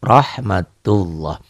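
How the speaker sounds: rahmatullah very slow, with a heavy "loh"; thick tafkhim. Shown as a demonstration. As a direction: stretch rahmatullah and round its ending to O. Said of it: "karena ini tafkhim tebal".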